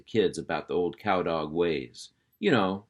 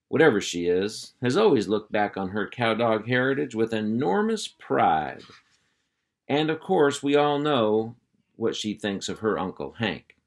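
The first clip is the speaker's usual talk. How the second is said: hearty uncle voice; 3 semitones higher, 4 dB louder than usual. Acted. Uncle Hank calling the puppies to attention, hearty and loud. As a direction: round up the kids like a ranch boss.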